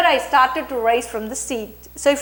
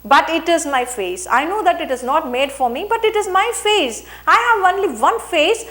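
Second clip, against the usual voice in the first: emotion with dignity; 3 semitones higher than usual. Shown as a demonstration. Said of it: "I was conscious of break in my voice".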